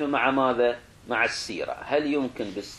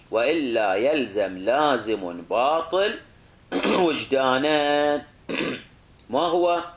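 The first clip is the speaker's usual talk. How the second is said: slow, drawn-out dictation; dictation pace; slower than usual. Real, not acted. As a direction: spell out the argument phrase by phrase. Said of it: "تدري تكتبها على راحتك".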